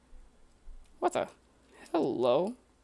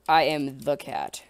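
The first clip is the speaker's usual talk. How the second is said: proud declaration; 5 dB louder, slower than usual. Pretend. Pretending to be cat.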